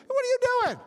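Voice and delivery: high, loud cartoon donkey voice; talking donkey. Donkey turning on Balaam, high loud indignant squeal.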